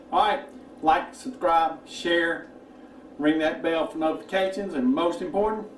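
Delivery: talking while chewing food; mouth full. Real, not acted. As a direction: say it through a mouthful. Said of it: "don't talk with your mouth full".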